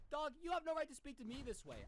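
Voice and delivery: retold angry comeback to the old man; heated retort. Arguing with the husband, retold.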